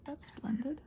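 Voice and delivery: wry, whispered sarcasm; quiet dry whisper; sarcastic whisper. Real, not acted. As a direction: hush the irony under your breath. Sarcastic reaction to mishap.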